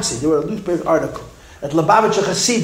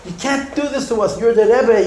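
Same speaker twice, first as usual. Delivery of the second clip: pleading cry; 5 semitones higher than usual. Retold or imitated. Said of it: "cry and scream at the Rebbe".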